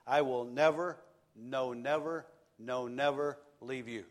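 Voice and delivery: preacher pressing "never" home; emphatic never. Shown as a demonstration. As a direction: stress each "never" in "I will never, no, never, no, never leave you". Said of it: "It has that special emphasis there".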